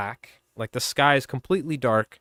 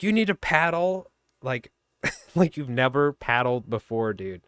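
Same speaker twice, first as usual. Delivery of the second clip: motivational speech. Retold or imitated. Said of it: "giving him, like, a Robert De Niro speech".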